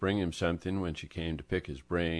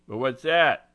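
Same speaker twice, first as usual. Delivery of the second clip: insisting; 7 semitones higher, 9 dB louder than usual. Acted. Angelo insisting on an answer.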